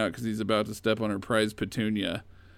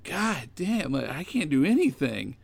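higher, mock exasperated outburst; a husband fed up, hammed-up and pitched up; frustrated husband; 5 semitones higher than usual. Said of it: "So then he's like".

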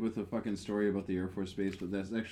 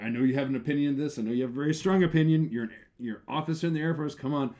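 eager prodding; 4 semitones higher, 5 dB louder, faster than usual. Retold or imitated. Pressing officer for opinion.

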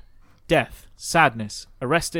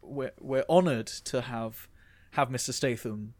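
hushed, halting deference of hotel staff; soft, slow, honoured-to-serve delivery; Ritz staff; 4 dB quieter, slower than usual. Acted. Ritz waiter welcomes Mister Statham to dine, hushed and deferential. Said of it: "people at the Ritz are like".

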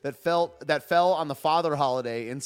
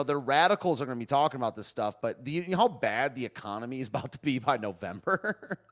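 normal talking voice

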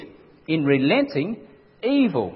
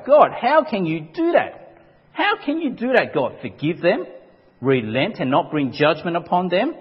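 indignant Jonah. Retold or imitated. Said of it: "Jonah was furious".

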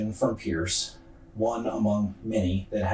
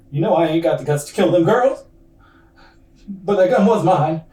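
mock crying; 7 semitones higher, 6 dB louder than usual. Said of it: "starts to cry a little bit".

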